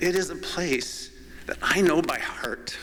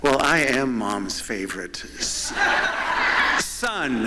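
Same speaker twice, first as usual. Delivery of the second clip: laughing through a cheeky boast; laughing joke. Real, not acted. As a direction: say it while cracking up. Joking to the crowd.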